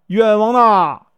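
long drawn-out, high, loud wail of injustice; plaintive loud cry of wrong. A narrator's reading. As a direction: call out slowly to the passing official. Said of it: "在道旁喊呢".

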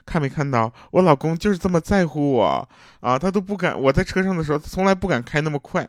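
high-pitched, mock-blissful wife showing off; imitating happy bragging. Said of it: "幸福的跟我们炫耀说". (模仿妻子幸福地炫耀)

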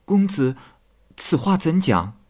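tearful maid pleading. Acted. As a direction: plead with him, stumbling over the words. Qingmei asks.

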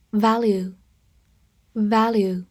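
drawn-out model word; slow review reading. Shown as a demonstration. Teacher reviewing the day's words with the class. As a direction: say each word slowly and clearly. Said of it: "复习一下今天学过的单词".

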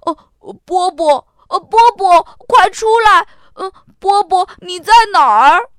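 high, loud calling out for a lost pet; frantic loud calls; yelling at full voice. A narrator's reading. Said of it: "亚瑟扯开了嗓门叫着".

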